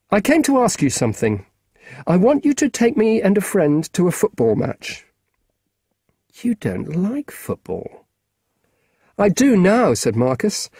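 lightly voiced keen schoolboy; a boy asking a grown-up a favour; boy's voice. Marcus voiced higher throughout.

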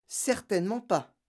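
pleasantly amused; smiling. A narrator's reading. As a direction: agree with a smile in the voice.

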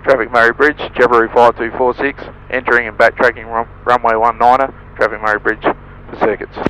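loud tinny radio call; crackly radio. Real, not acted. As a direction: pilot calling over static.

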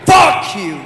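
slow mock-American outburst; shouting like American. Nigerian traveller copying the American, drawn-out mock shout. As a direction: stretch out the borrowed American outrage. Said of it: "Now shout again".

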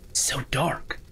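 hushed near-whisper; whispered unease. Real, not acted. Player creeping through a dark place, whispering. Alone in dark sewer in game.

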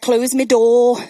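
lightly put-on Scouse, as her little boy; a touch of mock Scouse; imitated Scouse accent. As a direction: mimic a child's Scouse a little. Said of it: "they regularly speak Scouse to us".

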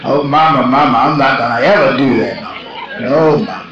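quick, lightly acted begging; pleading child. Preacher replays his childhood pleas to Mama, mock pleading. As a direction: imitate a child hurriedly promising Mama to behave.

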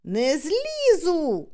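«Не злізу!» dragged out slowly as a stubborn cry; slow emphatic «Не злізу!»; stubborn shout. Retold or imitated. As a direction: refuse to climb down, calling out slowly. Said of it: "кричу".

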